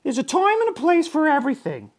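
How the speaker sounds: high, kindly teacher voice; gentle teacher. A narrator's reading. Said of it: "said Missus Inky Dink".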